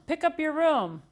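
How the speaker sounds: a hint of a mother's nag; nagging mom. Artie imitating his mom's nagging, mildly. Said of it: "She's always says".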